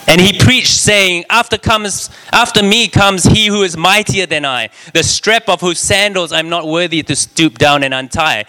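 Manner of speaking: a touch of fiery preaching; preaching John's words. Acted. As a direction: ring it out like a prophet. Preached quote of John.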